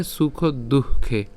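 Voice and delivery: দুঃখে said very slowly with a breathy h after the visarga; visarga pronounced. Shown as a demonstration. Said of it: "তো সেজন্য উচ্চারণ হচ্ছে".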